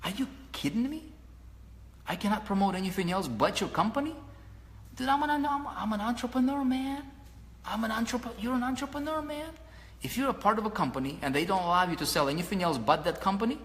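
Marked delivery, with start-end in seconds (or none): 0.0-4.1 high-pitched disbelief, much higher throughout; incredulous outburst. Retold or imitated. Telling the company he can't sell anything else, rising incredulous. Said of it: "I'm like". 4.9-9.5 much higher, rising passion; fired-up insistence. Real, not acted. Coach urging the room to see themselves as entrepreneurs, high and fired up. Pitched-up rant about being entrepreneur.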